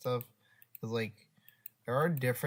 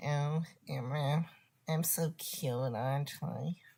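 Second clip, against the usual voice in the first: dorky, nerdy, cutesy voice; 4 semitones higher than usual. Voicing the little guy o o, talking to emma: nerdy o o character voice. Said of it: "I sound like a nerd".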